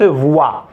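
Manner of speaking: "voix" pronounced vwa, not vo; pronunciation demo. Shown as a demonstration. Teacher correcting from the written O, "voix" as vwa. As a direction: give "voix" a clear w glide: vwa. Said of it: "Mais on la prononce".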